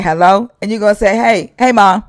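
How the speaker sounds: lightly voiced phone greeting. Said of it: "they gonna say".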